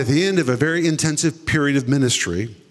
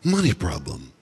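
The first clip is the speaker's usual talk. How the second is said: voice of the Holy Spirit; 2 semitones lower than usual. Retold or imitated. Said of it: "the Holy Spirit spoke to me a second time".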